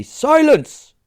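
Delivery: high, loud hissed command; loud hissed order for silence; whisper shout. Acted. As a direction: shout it under your breath. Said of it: "she whisper shouted".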